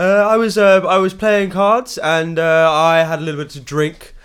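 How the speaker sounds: slow, slurred tipsy drawl; drunk new voice. Acted. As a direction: sound a bit drunk and muddled. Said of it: "I like this new voice".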